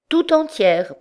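very high, upset wife's voice; distressed confirmation. A narrator's reading. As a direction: confirm it plaintively, pitched high.

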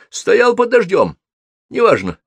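high, slow, lightly hoarse retort; husky reply. A narrator's reading. Wet wizard rebuffs Sophie's question, husky and touchy. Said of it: "сипло ответил он".

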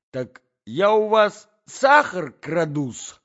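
high, loud offended tirade; scandalized lady on the attack; indignant Natalya. A narrator's reading. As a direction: press the grievance, drawing out the key words.

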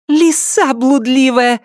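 slow, high and loud spat insult; hateful outburst. Acted. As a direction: fling it with hatred. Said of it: "с ненавистью выпалила она".

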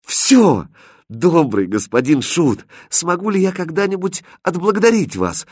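high, joyful cry of thanks; bright-spirited grateful girl; cheered-up exclamation. A narrator's reading. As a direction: exclaim it with rising delight. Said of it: "воскликнула повеселевшая Катринка".

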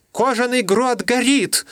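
high, gasping, slowed-down alarm; panting panic in a shrill voice; breathless blurt. Acted. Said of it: "задыхаясь, выпалил он".

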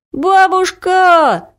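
put-on boy yelling for grandma across the house; calling grandma. A narrator's reading. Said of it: "закричал Вася".

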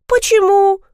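высоко и громко, удивлённо; искренне удивись. A narrator's reading. Бабушка удивлена. (бабушка удивлённо спрашивает внука, высоко)

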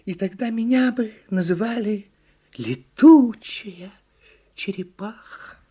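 high, drawn-out turtle voice; wistful storybook turtle; dreaming turtle. A narrator's reading. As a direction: savour the words, pausing between them. Turtle daydreams.

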